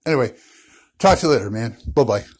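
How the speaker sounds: answering machine message. Real, not acted. Caller's voicemail played on show.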